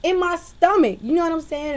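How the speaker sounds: loud sassy comeback; sassy retort. Retold or imitated. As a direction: fire back a loud, high sassy answer. Retorting to cashier.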